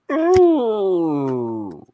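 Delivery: high, long falling howl; drawn-out "ooh" dog noise; imitated dog howl. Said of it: "All he needs to do is go".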